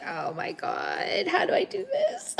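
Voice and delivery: whispered, rising to a high laughing cry; hammed-up distress breaking into laughter; mock panicked whimper. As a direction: act out someone frantic and overwhelmed. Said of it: "They're like".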